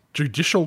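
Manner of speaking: "Judicial" given questioning emphasis; stress on JUDICIAL. Real, not acted. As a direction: lean on the word "Judicial". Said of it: "emphasis on the word judicial".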